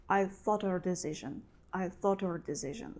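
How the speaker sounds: "her" said as "er", linked to "thought". Shown as a demonstration. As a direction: glide "thought her" together with the H dropped. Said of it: "is not pronounced like her".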